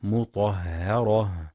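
مطهرة with a thin, light ه, slowly; light h demo. Shown as a demonstration. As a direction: keep the ه in مطهرة light, not heavy. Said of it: "لترقيق الهاء".

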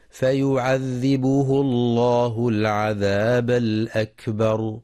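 slow melodic tajweed chanting; Quran recitation. Shown as a demonstration. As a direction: chant the verse slowly, drawing out vowels.

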